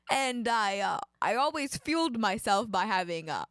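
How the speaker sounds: attempted Canadian accent; mock Canadian accent. Astronaut telling of their training, mock Canadian. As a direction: play up a stereotyped Canadian.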